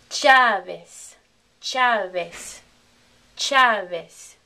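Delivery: Chavez as "CHAH-ves"; Spanish pronunciation. Shown as a demonstration. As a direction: stress CHA in Chavez, end on S. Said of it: "correct Spanish pronunciation".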